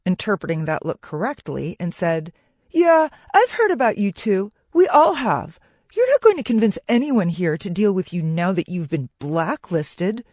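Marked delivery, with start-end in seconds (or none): 2.7-10.2 high, loud jeer easing as it goes; scornful, taunting character voice; snorting scorn. A narrator's reading. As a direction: sneer at them, starting pitched up. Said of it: "Scotty snorted".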